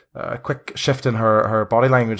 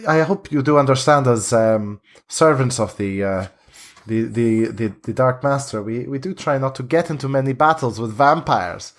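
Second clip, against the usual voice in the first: Vistani leader. Acted.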